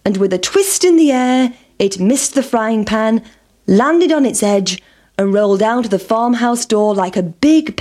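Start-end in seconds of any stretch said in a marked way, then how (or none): none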